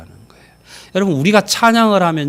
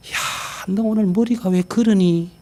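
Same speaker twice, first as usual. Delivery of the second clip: mocking remark; 4 semitones higher than usual. Shown as a demonstration. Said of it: "이렇게 감탄하면 안 되잖아요".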